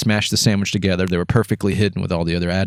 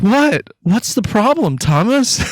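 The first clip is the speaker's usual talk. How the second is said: high, squeaky retort on the edge of laughter; squealed fake-clueless question; mock innocence; 13 semitones higher, 4 dB louder, slower than usual. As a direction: play innocent while cracking up. Retold feigned innocence, barely holding laughter.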